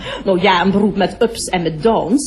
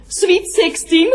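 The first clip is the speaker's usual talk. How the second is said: drawn out, much higher, indignant; mock outraged cry; 8 semitones higher, slower than usual. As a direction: hold it long and high like an accusation. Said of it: "roep ik". (verontwaardigd en langgerekt uitgeroepen, veel hoger)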